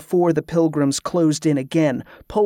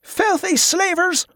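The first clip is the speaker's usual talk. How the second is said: high, drawn-out shouted insult; slow, high-pitched contemptuous shout; angry shout; slower than usual. A narrator's reading. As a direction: hurl it out like a thrown rock. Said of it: "one of them shouted".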